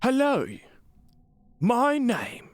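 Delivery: high, halting mock British accent; attempted British accent. Gamer auditioning as Thalmor, high faltering British accent. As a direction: try a high put-on British accent, then give up. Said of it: "too hard for me to break into".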